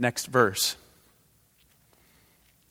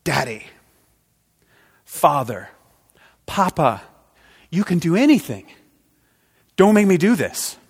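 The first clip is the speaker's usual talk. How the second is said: rising anguished plea, building louder; Jesus crying out to his father; 4 semitones higher, 6 dB louder than usual. Acted. Preacher voicing Jesus pleading with God, building to loud anguish. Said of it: "He cries out into the night".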